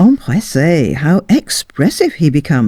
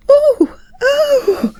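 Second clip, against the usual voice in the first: very high mock scream breaking into a laugh; a lady shrieking in the dark; piercing hammed-up shriek. A narrator's reading. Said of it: "Miss Haythorn's scream".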